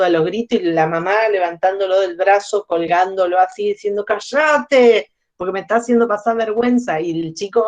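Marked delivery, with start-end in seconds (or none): 4.0-7.0 sharp, raised scold from an embarrassed mum; mother snapping at child. Acted. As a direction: hiss it out, mortified in public.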